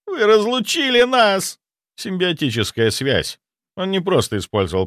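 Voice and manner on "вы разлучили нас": high, slow anguished wail; sobbing reproach. A narrator's reading. Zaitsev wailing at the necromancer for separating them. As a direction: accuse him through tears. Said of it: "зарыдал он".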